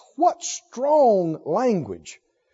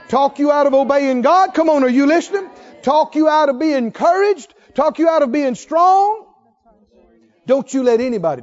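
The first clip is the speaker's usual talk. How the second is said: raised, insistent preacher cadence; rousing preaching; 7 semitones higher, 4 dB louder than usual. Real, not acted. Preacher urging congregation not to be talked out of faith, rousing. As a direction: build each repeated phrase higher.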